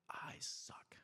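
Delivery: unvoiced whisper of a dejected girl; whispered I suck. Daughter at skate park muttering about herself, whispered. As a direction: breathe it out, defeated. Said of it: "She would say".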